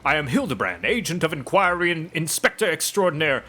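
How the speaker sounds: courtly, theatrical gentleman detective; a hint of grandiose self-importance; lightly voiced pompous inspector. Inspector apologising to a grieving mother, lightly pompous. Reads inspector's reply to hag.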